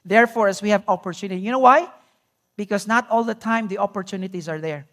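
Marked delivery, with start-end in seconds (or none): 0.0-1.4 quick rushed reread. Shown as a demonstration. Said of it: "why do you think Paul said this".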